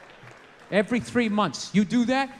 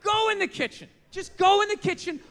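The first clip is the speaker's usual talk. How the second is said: calling out a mock order, a little higher; mock shout; 4 semitones higher than usual. Comedian jokingly orders women to the kitchen, mock shout. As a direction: bark it out as a joke command. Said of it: "I'm just saying".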